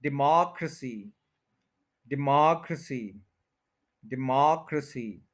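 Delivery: डेमोक्रेसी as di-MOCK-ruh-si; stress on mock. Shown as a demonstration. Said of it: "र को बहुत कम बोला".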